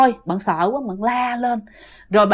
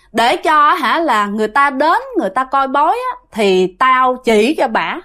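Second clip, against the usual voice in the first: a lightly raised voice for the mountain spirit; the spirit from the mountain explains itself to the father in a slightly higher voice; strange spirit voice; 3 semitones higher than usual. Retold or imitated. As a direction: talk a little higher as the spirit telling its story. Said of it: "giọng của mẹ rất là lạ".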